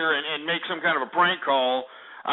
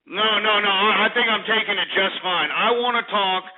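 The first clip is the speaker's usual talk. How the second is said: higher-pitched, insistent tirade; mad; 4 semitones higher than usual. Real, not acted. Host refuses caller's plea to stop, ranting mad. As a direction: pile up the insults with relish. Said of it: "I think you're getting mad".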